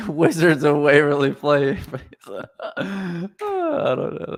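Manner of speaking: words squeezed out through laughter; cracking up mid-sentence; laughing. Real, not acted. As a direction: laugh while you say it. Laughing at wizard accent talk.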